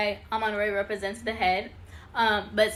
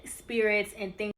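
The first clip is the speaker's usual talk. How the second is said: slowed words with a Jamaican lilt; slight Jamaican accent; slower than usual. Real, not acted. Host explaining what attaches to you, slight Jamaican accent. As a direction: slip lightly into a Jamaican accent. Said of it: "where that little accent just came from".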